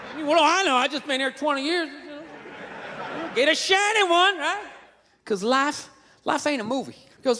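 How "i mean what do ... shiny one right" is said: Southern redneck voice sinking to near silence; redneck trailing off. Acted. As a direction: let the folksy Southern line peter out. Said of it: "that redneck trailing off thing".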